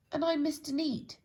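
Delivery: squeaky storybook neat man; chirpy Mister Neat. Acted. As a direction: pop in as a bright, eager Mister Neat. Second character voice.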